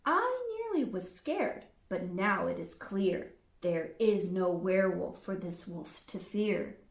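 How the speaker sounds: loud snarling wolf. Acted. Wolf snarling at Red, loud and menacing. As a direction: snap the words out, loud and menacing. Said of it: "snarled and snapping and drooling".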